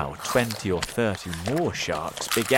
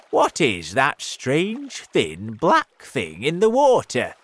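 crying out; 7 semitones higher, 9 dB louder than usual. A narrator's reading. Centipede pointing out a shape in the water, crying out. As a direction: call out in raised, stretched words. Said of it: "cried the centipede".

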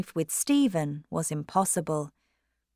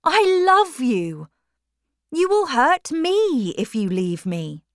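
put-on high, louder, desperate young man; pleading lover; 6 semitones higher, 5 dB louder than usual. A narrator's reading. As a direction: beg her not to leave you. Stephen begs Maggie to marry.

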